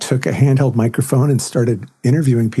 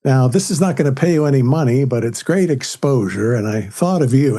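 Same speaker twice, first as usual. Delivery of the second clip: imitating dad's voice; 2 semitones higher than usual. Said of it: "He would pretend to be my dad".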